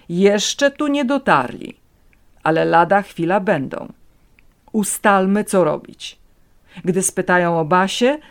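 firm, steady reassurance; priest voice. A narrator's reading. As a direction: keep him steady, urgent and sure. Priest character, held voice.

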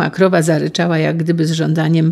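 plain reading voice

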